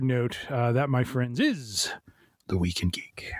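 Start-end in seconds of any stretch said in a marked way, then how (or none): 2.5-3.3 hushed show title; whispered sign-off. Acted. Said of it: "show sign-off line".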